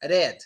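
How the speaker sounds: "red" with a quick tongue-tap R; wrong R. Shown as a demonstration. Teacher warning against a tongue touch, tapped R. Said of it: "Don't even say it's red".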